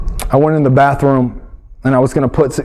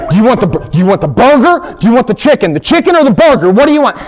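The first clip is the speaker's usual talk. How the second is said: badgering; 5 semitones higher, 3 dB louder, faster than usual. Husband badgering wife.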